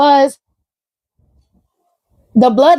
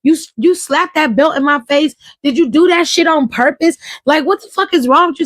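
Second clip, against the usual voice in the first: mock furious rant; 3 semitones higher than usual. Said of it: "Full Homelander".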